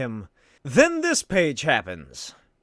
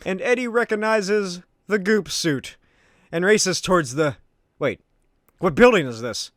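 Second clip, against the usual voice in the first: ordinary talk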